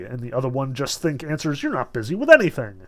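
lively reading of an agitated secretary's tale; lightly acted storytelling; animated story reading. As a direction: read the story with swooping, dramatic emphasis. Reads secretary's account aloud.

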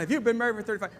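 high-pitched amazed echo; acted-out astonishment, pitched high; animated, worked up. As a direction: imitate a worked-up young guy marvelling. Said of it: "just all animated and, and all worked up".

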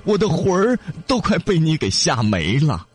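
high, hurried and frightened; urging fisherman. A narrator's reading. Frightened fisherman hurries the demon to talk, high and urgent. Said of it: "老渔夫连忙催促道".

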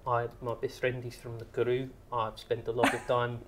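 mock South African accent. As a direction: imitate a South African, roughly and affectionately. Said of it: "me mangling your beau-, it's a beautiful accent".

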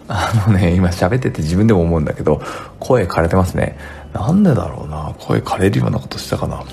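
rough, worn-out hoarse voice. Real, not acted. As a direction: talk through a hoarse throat.

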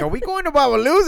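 mock excited wife; excited guess. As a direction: imitate her eager guess. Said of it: "And you're like".

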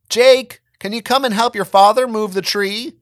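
high, loud call up the stairs; mom yelling. A narrator's reading. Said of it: "my mom yelled from downstairs".

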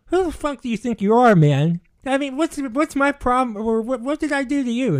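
angry caller on the phone; retold angry confrontation. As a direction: confront him over the phone. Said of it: "And I'm like".

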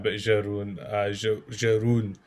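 halting Jeroen, with a zh start; struggling with a name. Shown as a demonstration. Host failing at the guest's name, halting zhe-ROON for Jeroen. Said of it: "you pronounced my name".

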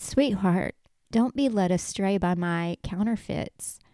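gentle, hushed reassurance; small still voice. Retold or imitated. Jesus gently warning a loved one, small still voice. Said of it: "still voice from a distance".

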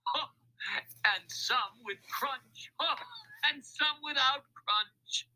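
high, drawn-out gleeful list; guffawing. A narrator's reading. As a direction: break the list with big ho's. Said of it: "the laughter beginning again".

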